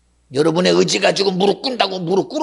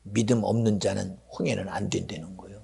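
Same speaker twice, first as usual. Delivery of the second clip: hushed unvoiced aside; dramatic whisper; 11 semitones lower, 10 dB quieter than usual. Preacher whispering to the congregation about Pharaoh. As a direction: lean in and whisper it.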